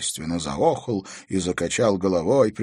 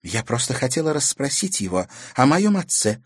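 calmly; 7 semitones higher than usual. Acted. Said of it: "спокойно сказала девочка".

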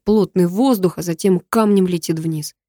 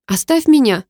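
higher, louder rasped plea; hoarse rasp; 6 semitones higher, 5 dB louder than usual. Acted. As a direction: rasp it out, fighting him off. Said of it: "прохрипела она". (хриплый крик)

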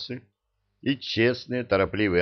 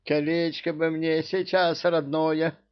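upset; 9 semitones higher than usual. A narrator's reading. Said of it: "расстроился король".

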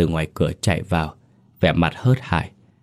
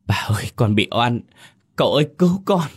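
desperate cry for help; 5 semitones higher than usual. Acted. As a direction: cry out for rescue mid-beating. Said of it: "Tiếng Lụa yếu ớt dần".

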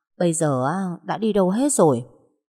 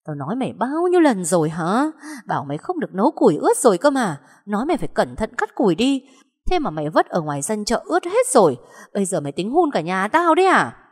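angry scolding; 4 semitones higher than usual. Acted. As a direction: tear into the stepdaughter. Stepmother scolding, pulling her hair. (mắng giận dữ, giọng cao)

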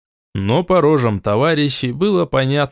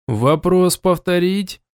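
calm; 7 semitones higher, slower than usual. A narrator's reading. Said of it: "уже спокойным голосом".

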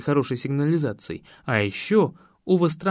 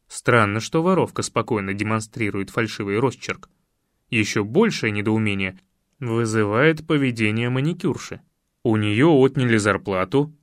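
a lightly lowered, steady man's voice, reasoning it out; lowered detective voice; 6 semitones lower than usual. A narrator's reading. The detective reasons aloud to the girl, in a lower calm voice. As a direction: lay out the logic calmly like an investigator.

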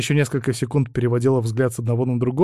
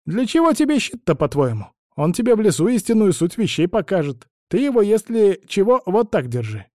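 put-on higher, fussy old crone voice; old woman; 8 semitones higher, 4 dB louder than usual. A narrator's reading. Old woman instructs travellers about the spindle, high crone voice. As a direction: chatter on like a meddling old woman.

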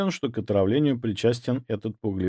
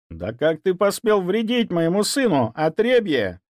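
higher, furious mother's voice; roaring countess; 9 semitones higher, 3 dB louder than usual. Acted. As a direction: roar at the servant. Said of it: "взревела женщина". (взревела от гнева)

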